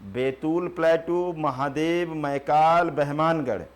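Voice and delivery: बैतूल प्लेटू said slowly and clearly for writing down; slow dictation. Shown as a demonstration. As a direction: spell out बैतूल प्लेटू word by word for the class. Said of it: "एक MP में और छूट गया".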